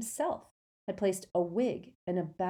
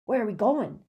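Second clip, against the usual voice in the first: puffing; 4 semitones higher, 6 dB louder than usual. A narrator's reading. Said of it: "puffed Hagrid".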